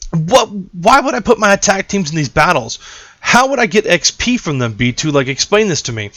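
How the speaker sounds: lightly voiced baffled questioner; mock demand for an explanation; puzzled viewer. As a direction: play a confused fan quizzing the host.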